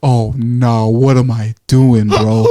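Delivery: laughing through a stoned oh no; slow, chuckling what-am-I-doing; laughing disbelief. Retold or imitated. Freaking out while high, laughing.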